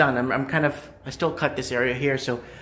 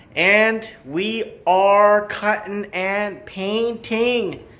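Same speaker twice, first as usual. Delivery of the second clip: slow, deliberately drawn out, every word stretched, pitched up; 6 semitones higher than usual. Giving a renovation progress update: deliberately slow. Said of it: "I said that slow on purpose".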